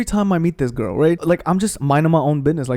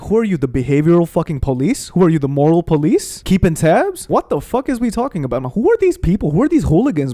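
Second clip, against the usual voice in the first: exasperated retort; 2 semitones higher than usual. Retold or imitated. Ranting at friend's retold ultimatum.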